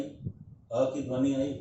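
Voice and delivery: slowed repeat for emphasis; teacher slowing down to drive the point home. Shown as a demonstration. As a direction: say it again, slowly and deliberately.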